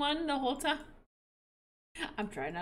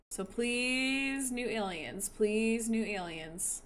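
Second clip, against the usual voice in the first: quiet pleading; 6 dB quieter, slower than usual. Real, not acted. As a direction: beg under your breath, voice sinking. Begging the game for new aliens.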